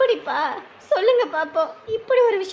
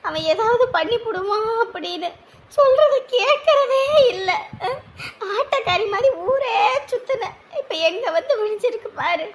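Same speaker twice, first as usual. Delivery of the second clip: wailing lament; 5 semitones higher than usual. Acted. Aunt wails over ruined wedding.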